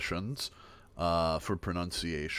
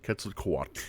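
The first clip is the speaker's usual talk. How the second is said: QUETZALCOATL as ket-sal-KWATL; stress on CO; 4 dB quieter than usual. Shown as a demonstration. Teacher points out the stressed syllable, correct demo. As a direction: lean on the kwa of QUETZALCOATL, soft tl. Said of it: "So it's on the co".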